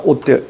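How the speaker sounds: 옷들 with the first coda closed as a t; pronunciation demo. Shown as a demonstration. Teacher shows how the final ㅅ becomes ㄷ, pronunciation demo of 옷들. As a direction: say 옷들 with ㅅ turned to ㄷ. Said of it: "이렇게 가셔야 되고요".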